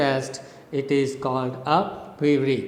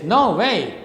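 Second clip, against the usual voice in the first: "No way" with both syllables stressed; two equal strong beats on "No way"; stress on both words; 4 semitones higher than usual. Shown as a demonstration. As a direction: punch "No" and "way" alike, pitched up. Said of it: "when you speak like this".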